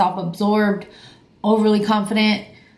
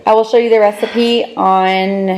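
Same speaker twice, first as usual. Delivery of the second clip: loud, hyped-up vlog reveal; loud, showy excitement; excited announcement; 7 dB louder than usual. Real, not acted. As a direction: announce it loudly to the viewers, thrilled. Announcing a dessert to viewers.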